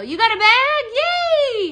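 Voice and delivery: high, slow, drawn-out cheer; delighted high singsong for the customer; excited sing-song. Real, not acted. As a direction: sing it out like announcing a prize. Cheering a buyer's purchase.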